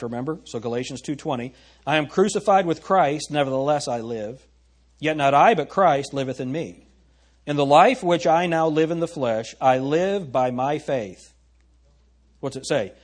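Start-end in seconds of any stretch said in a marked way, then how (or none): 1.9-11.3 measured, weighty Bible reading; scripture reading. Acted. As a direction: read the verse out with gravity. Scripture read aloud.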